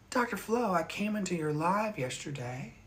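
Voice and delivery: a light, high imitation of the woman; mimicking her. Quoting the woman who ducked his live, lightly imitated. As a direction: lightly voice her hesitant greeting. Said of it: "That's how she said it".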